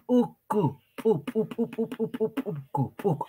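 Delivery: "pu" agudo, reventado en golpes cortos; p explosiva. Shown as a demonstration. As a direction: repite "pu" como pequeñas explosiones. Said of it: "como si nosotros estaríamos haciendo reventar o explotar algo". ("puku" con la p eyectiva que estalla)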